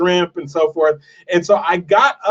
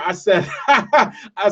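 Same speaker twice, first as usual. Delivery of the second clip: laughing while retelling; much slower than usual. Real, not acted. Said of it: "I start laughing".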